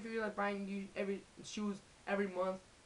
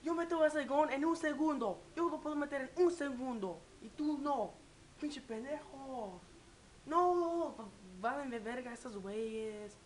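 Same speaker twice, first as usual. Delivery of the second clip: raised, boastful parent ranting in Spanish; blaming the players; 4 semitones higher than usual. Retold or imitated. Parent rants at players on TV, high mocking scorn. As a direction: scoff that you'd score it in a second. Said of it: "they're blaming the players".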